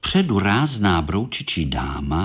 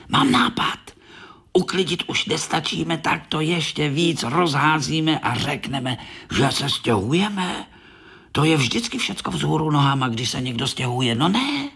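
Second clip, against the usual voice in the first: higher, quick eager beetle voice with a whispered aside; scheming little beetle; 6 semitones higher than usual. Acted. Korálek hatching a plan to fool visitors, eager and high. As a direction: pitch it high and plot eagerly.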